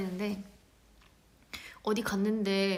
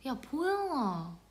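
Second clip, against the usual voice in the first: Jeolla dialect call; 4 semitones higher, much slower than usual. Retold or imitated. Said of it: "친한 언니가 전라도거든요".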